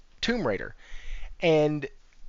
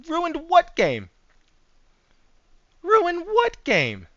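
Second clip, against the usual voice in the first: mock indignation; 9 semitones higher than usual. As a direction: play the wrongly accused, hammed-up. Mock-offended reply to chat accusation.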